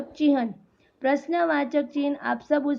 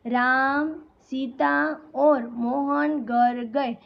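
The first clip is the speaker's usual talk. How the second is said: slow list with a pause after "Ram"; comma pause; slower than usual. Shown as a demonstration. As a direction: pause briefly after "Ram", then continue slowly. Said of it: "थोड़ा रुकने का संकेत देने के लिए".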